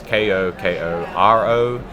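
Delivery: slow, letter-by-letter spelling; carefully spelling the name for listeners; spelled out slowly. Shown as a demonstration. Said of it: "In case for anyone that doesn't know how to spell it".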